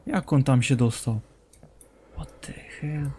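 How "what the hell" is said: unvoiced baffled whisper; whispered what the hell. Real, not acted. To himself seeing it on the roof, baffled whisper. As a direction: hush it out in disbelief.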